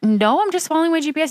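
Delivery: high, earnest self-defence; defensive explaining. Retold or imitated. Wife on the phone explaining to her boyfriend, high and defensive. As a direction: pitch it up and insist. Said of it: "I was like".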